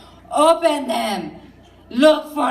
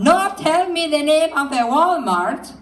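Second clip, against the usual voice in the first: higher, lilting sing-song demand; mother's sing-song voice; 5 semitones higher, 3 dB louder than usual. Retold or imitated. Mother pressing her son for the Walmart name, sing-song. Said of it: "'Cause she talked like that".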